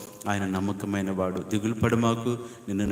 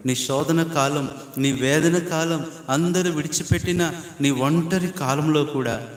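each phrase lifted higher, swelling with feeling; rising preaching fervor; 4 semitones higher than usual. Real, not acted. Preacher names the congregation's lonely trials, rising fervently. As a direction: climb the list with growing intensity. Preacher climbs through a list.

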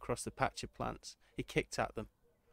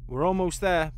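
nervous; 6 semitones higher, 8 dB louder than usual. A narrator's reading. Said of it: "Bassett said nervously".

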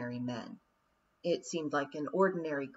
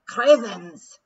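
loud, high Scottish pixie yell; pixie battle cry; 5 semitones higher, 13 dB louder than usual. A narrator's reading. Pixies landing in front of the Queen, loud battle cry. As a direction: bellow it like a wee warrior.

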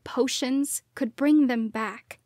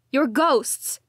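cried out; 2 semitones higher, 5 dB louder than usual. A narrator's reading. Daughter crying out at her ghost parents. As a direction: shout the accusation. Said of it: "I cried".

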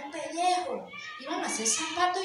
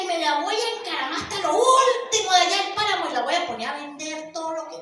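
market owner; 3 dB louder than usual. Acted. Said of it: "el dueño del mercado dijo".

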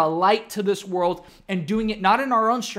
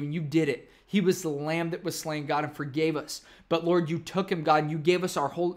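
closing prayer. Acted.

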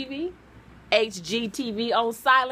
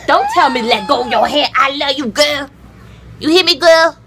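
excited; 2 semitones higher, 7 dB louder than usual. Real, not acted. Loving loud talk to the dog.

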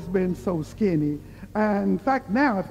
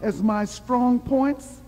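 solemn book reading. Real, not acted. Reading to the congregation about Calvary love, solemn and measured.

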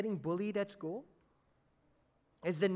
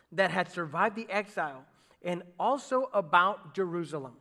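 steady, louder sermon reading of the text; scripture reading; 4 dB louder than usual. Acted. Pastor reading Nehemiah aloud to the church, measured scripture reading. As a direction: read the passage out to the congregation.

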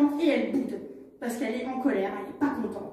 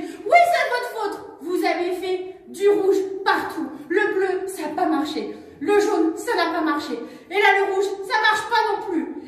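higher, louder scolding; angry blame; 5 semitones higher, 3 dB louder than usual. Acted. Cali scolds Jules for every failed colour, high. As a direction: list his failures angrily. Cali lists his failures.

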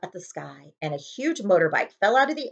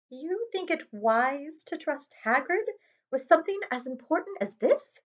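McGonagall voice; 9 semitones higher, 5 dB quieter than usual. Acted. McGonagall doubting Hagrid.

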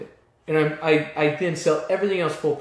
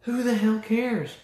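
fired up; 2 semitones higher, 4 dB quieter, slower than usual. Real, not acted. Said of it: "sorry, I'm getting fired up".

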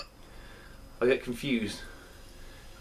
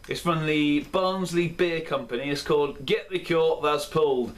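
a light put-on Yorkshire accent, slightly raised; rubbish Yorkshire accent; 3 semitones higher than usual. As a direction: have a go at a Yorkshire accent, not quite landing it. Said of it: "That is my rubbish Yorkshire accent".

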